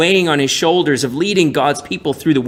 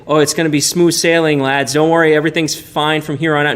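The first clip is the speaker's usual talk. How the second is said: hammed-up carefree promise, a bit faster; lightly mocking everything's-fine voice; mock breezy reassurance; 2 semitones higher than usual. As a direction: brush off worries like a cheery skipper. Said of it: "It's not that".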